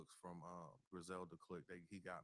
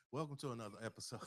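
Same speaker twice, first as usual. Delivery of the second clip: fast and louder restart; redo; 5 dB louder, much faster than usual. Shown as a demonstration. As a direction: snap back into the intro, quicker and louder. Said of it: "No, I'm sorry".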